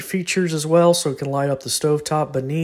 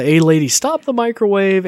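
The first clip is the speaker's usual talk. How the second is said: voice command; 7 semitones higher, 7 dB louder than usual. Shown as a demonstration.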